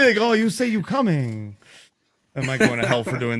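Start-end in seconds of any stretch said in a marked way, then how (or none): 0.3-1.6 mock Asian accent; lightly faked Asian accent. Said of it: "the fake, the Asian voice".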